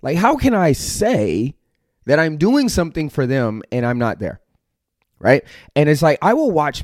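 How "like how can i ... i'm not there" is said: higher, exasperated inner voice; a hint of his past self, pleading to be understood; retelling his own frustrated thoughts. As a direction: replay the old frustration, pitched up. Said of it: "I was like".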